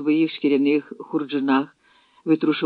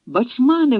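high, louder call across the clearing; 9 semitones higher, 6 dB louder than usual. A narrator's reading. Dobrynia calling to an old friend across the camp, loud. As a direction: hail a friend from afar. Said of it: "гукнув Добриня".

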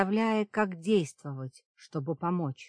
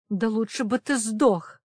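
hissed through teeth; 5 semitones higher, 6 dB louder than usual. A narrator's reading. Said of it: "процедила демоница".

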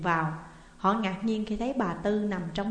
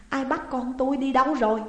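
louder and higher, panicked; loud frantic cry; 5 semitones higher, 5 dB louder than usual. A narrator's reading. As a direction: shout at the empty hut. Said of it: "lại la lớn". (bà mẹ hoảng hốt la lớn hỏi ai bắt con)

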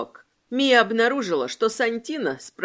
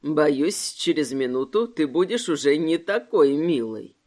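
put-on cutesy baby talk; 7 semitones lower than usual. A narrator's reading. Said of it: "просюсюкал Сантино".

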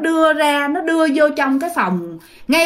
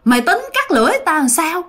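lightly voiced ghost woman, pitched up; ma nữ trách móc; 6 semitones higher than usual. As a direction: accuse him in a high, plaintive voice. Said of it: "nó than thở xong cái nó thấy chú dòm nó". (giọng ma nữ hơi cao, hỏi tội)

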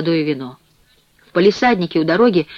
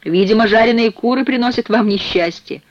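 higher-pitched, mildly preachy observation; didactic; 6 semitones higher than usual. A narrator's reading. Bass cellmate lectures the chicken man, mildly didactic. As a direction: point out the lesson to him. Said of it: "поучительно заметил бас".

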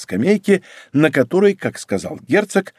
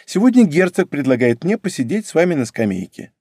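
put-on a light, slightly higher girlish voice, polite and teasing; a hint of a coy court girl; lightly voiced young lady; 5 semitones higher than usual. Young lady Mary speaks.

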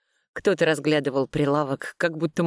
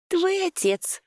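hissed through teeth; slower than usual. A narrator's reading. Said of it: "процедила я".

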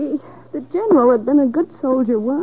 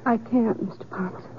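whispered plea; 5 semitones lower, 5 dB quieter than usual. Acted.

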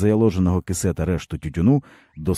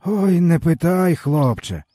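slow, higher groan of a tired man; 11 semitones higher, 4 dB louder, slower than usual.

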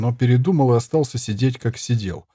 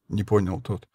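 ordinary delivery

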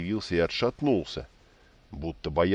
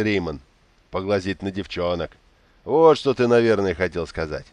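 put-on teasing young noble; 4 dB louder than usual. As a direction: tease him with a grin, a touch louder.

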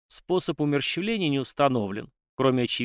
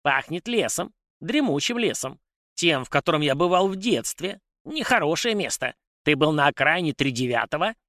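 higher, wary little domovoi; high house spirit voice; 5 semitones higher than usual. A narrator's reading. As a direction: sniff and worry, high-voiced. House spirit sniffs, frowns. (высокий голос домового)

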